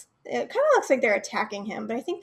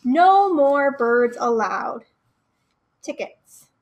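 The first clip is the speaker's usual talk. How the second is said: stern bouncer; 7 dB louder, slower than usual. Acted. Bird bouncer refusing entry.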